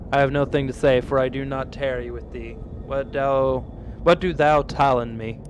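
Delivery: lightly voiced solemn talking tree; archaic tree voice. Streamer voicing a tree accusing the woodcutter, solemn. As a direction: speak like an old-fashioned forest spirit, grave.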